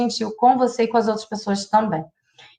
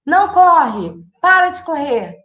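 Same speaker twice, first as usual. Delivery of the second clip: sharp, higher scolding "não corre"; raised-voice parental reprimand; scolding parent command; 5 semitones higher, 3 dB louder, slower than usual. Shown as a demonstration. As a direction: snap it at a running child. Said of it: "ao invés de a gente falar assim".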